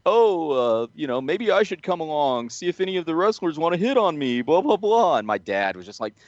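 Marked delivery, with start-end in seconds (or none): 0.0-5.2 high-pitched put-on mom voice; imitated mom. Mom inviting herself to the wrestling show, mimicked in high voice. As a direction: imitate mom angling to come along, pitched up. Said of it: "my mom was like".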